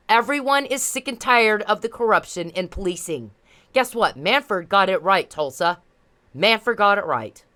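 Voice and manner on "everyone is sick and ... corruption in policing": spelled out slowly for the slow; drawn-out, each word set down deliberately; slow and emphatic. Real, not acted. To the police, slow repeated emphasis. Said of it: "I'm gonna say it one more time 'cause y'all are slow".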